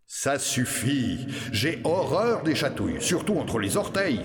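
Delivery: Robert agacé, lent au début puis plus aigu; il râle contre les chatouilles; grognement de Robert. Acted. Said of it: "grogna à nouveau Gros Robert". (Gros Robert excédé par les chatouilles, qui grogne)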